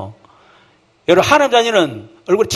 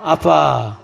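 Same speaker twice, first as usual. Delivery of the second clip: calling Father tenderly; 3 semitones lower, much slower than usual. Shown as a demonstration. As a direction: say "아빠" like a child calling its dad. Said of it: "시작". (아이처럼 다정하게 "아빠")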